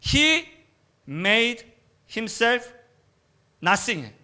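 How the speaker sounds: high start, drawn out very slowly; emphatic English quote. Shown as a demonstration. Preacher quoting the NIV, slow emphasis. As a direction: stretch out He made himself. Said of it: "엔아이브이 성경에는요".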